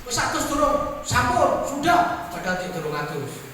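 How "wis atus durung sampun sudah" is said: put-on child's voice. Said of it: "Cah cilik-cilik kan gitu".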